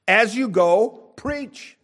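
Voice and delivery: slow, high, drawn-out "As you go, preach."; rising preacher's climax. Acted. Preacher urging the congregation, slow and soaring.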